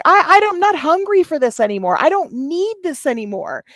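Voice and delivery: imitating a drunk streamer, high and yelling; mock the drunk rant in a high yell; drunk high-pitched yelling. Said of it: "that high-pitched yelling".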